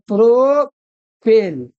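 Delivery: प्रोपेल drawn out very slowly, syllable by syllable; slow dictation. Shown as a demonstration. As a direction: stretch प्रोपेल out as if writing it on the board. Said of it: "प्रोपेल ना".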